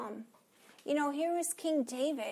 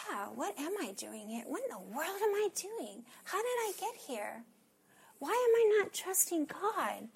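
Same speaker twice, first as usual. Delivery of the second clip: self-questioning; 4 semitones higher than usual. Acted. Acting out her answer to God.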